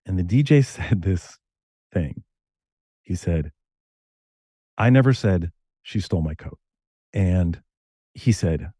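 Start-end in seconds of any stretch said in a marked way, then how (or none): 4.8-6.6 "never" lifted and leaned on; stress on NEVER. Retold or imitated. DJ on late night radio reads the line, stress on NEVER. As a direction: DJ puts weight on "never". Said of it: "how I said them".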